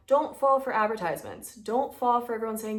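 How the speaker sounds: mild mock yell, firm and emphatic; big-sister yell. Big sister warning viewers about adverts, mildly yelling. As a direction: scold lightly like a big sister. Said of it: "I am going to yell at you for a sec. I'm going to be like a big sister and just yell".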